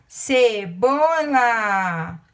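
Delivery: drawn out slowly, syllable by syllable; slow dictation. Shown as a demonstration. Teacher to first graders finding the word, slow dictation. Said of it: "Aqui está".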